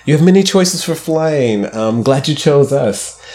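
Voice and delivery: lightly mock flight attendant voice. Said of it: "I don't wanna make it sound like I'm a stewardess".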